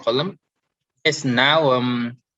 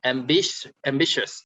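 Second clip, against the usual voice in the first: "ambitious" leaning on BI; stress on middle syllable. Shown as a demonstration. Teacher repeating the example for students, middle stress on "ambitious". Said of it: "So we, we stress on".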